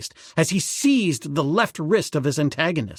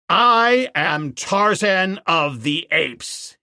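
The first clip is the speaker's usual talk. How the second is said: ape man crying out; 3 semitones higher, slower than usual. Acted. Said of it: "he cried".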